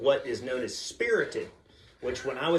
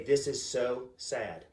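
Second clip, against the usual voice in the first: mock sad; 2 semitones lower, 4 dB quieter, much slower than usual. Shown as a demonstration. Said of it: "this is the key phrase".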